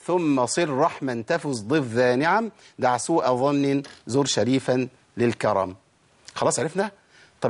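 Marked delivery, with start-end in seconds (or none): 0.1-5.8 slow, measured chanted verse; verse recitation. Shown as a demonstration. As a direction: recite the teaching poem with drawn-out vowels. نقول البيت تاني.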